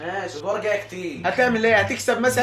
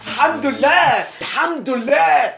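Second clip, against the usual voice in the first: relieved cheer; 5 semitones higher, 4 dB louder, much slower than usual. Real, not acted. Relief after correct guess.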